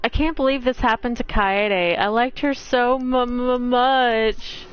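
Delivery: lightly acted tearful stammer; understated weepy voice, stuttering at the end; mock bawling. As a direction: play a grief-stricken character tripping over the last word. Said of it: "And he's bawling".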